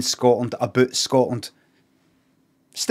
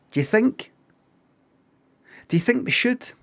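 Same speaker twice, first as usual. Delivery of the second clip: mock casting boss asking; 10 semitones higher than usual. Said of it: "you would go like that".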